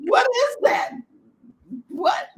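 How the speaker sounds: high, baffled question; puzzled and alarmed; startled husband. Retold or imitated.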